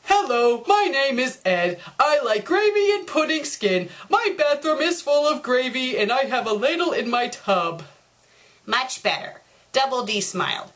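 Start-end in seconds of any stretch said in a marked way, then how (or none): 0.0-7.8 clean, even reading of the fixed essay; corrected version. Shown as a demonstration. Double D shows the corrected essay, tidy and clear. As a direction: read it neatly and properly. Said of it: "if Ed bothered to fix up his essay".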